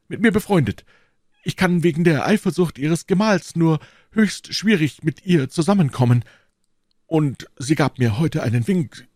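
high-pitched, self-important gentleman; boastful Porthos. Acted. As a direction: show off while feigning nonchalance. (prahlerisch, mit erhobener Stimme)

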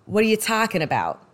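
attempted Boston accent on the vowels; light imitation of a Boston accent. Shown as a demonstration. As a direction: say "talking" with a Boston A. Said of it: "Boston, they say".

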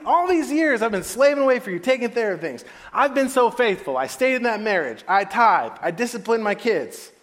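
high, loud list of grievances; acted self-righteous outburst; righteous anger. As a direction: pile up the complaints with rising indignation. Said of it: "All of a sudden he was angry".

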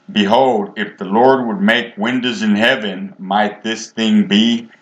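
mock-doubtful royal advisor, last words slowed; sarcastic. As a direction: scoff at the prophet's promise with a sneer. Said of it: "he's being sarcastic".

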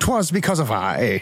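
low slow pompous voice; old-timey pompous voice. Acted. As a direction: proclaim in archaic English. Mock old-timey claim.

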